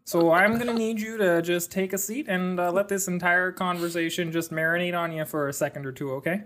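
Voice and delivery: laid-back Canadian talk, hammed up a little; mock Canadian accent. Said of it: "speaking like a true Canadian".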